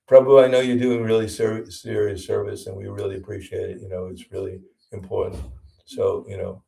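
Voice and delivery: mildly voiced, encouraging appeal; positive, appreciative. Inviting a temple devotee to come out, positive and appreciative. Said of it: "we should be positive".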